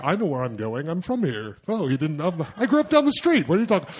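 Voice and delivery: brash act of belonging, pushing it; fake local swagger. Lone tourist faking he grew up nearby, mock swagger. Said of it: "I put on my, like".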